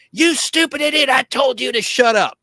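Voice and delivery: high, sharp mock yell of a rude girl. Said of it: "so she goes".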